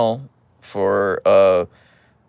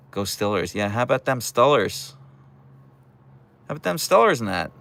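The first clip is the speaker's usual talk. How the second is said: light Pittsburgh "Stillers" with the yinzer vowel; a teasing hint of a Pittsburgh fan accent; mock Pittsburgh accent; 2 semitones higher than usual. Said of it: "I don't have a Pittsburgh accent either".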